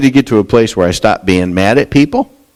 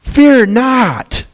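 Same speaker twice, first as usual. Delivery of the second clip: much higher, tender reassuring plea; Joseph comforting brothers; much slower than usual. Retold or imitated. Joseph reassuring his scared brothers, high gentle comfort. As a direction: soothe your frightened brothers. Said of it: "He says".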